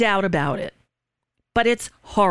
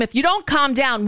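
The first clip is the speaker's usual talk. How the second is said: raised-pitch imitation of cops threatening; mild mock scream; 5 semitones higher than usual. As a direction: retell a screamed warning without much volume. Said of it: "while they're screaming at him".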